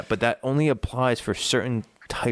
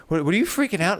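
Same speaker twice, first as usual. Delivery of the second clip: voicing the dog; 8 semitones higher than usual. Voicing her dog May.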